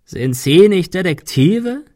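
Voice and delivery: slow, high mocking croak; drawn-out hoarse sneer. A narrator's reading. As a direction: rasp out the taunting question. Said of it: "krächzte er".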